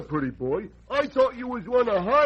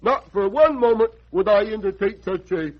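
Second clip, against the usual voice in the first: indignant. Acted. Indignant refusal of a bribe.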